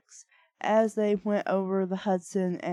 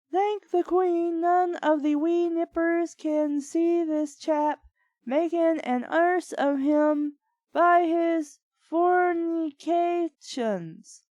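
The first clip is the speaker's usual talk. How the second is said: mock British accent; 8 semitones higher than usual. Same butler voice continues.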